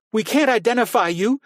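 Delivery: high, loud shouted protest; exploding shout. A narrator's reading. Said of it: "Carrie seethed and exploded".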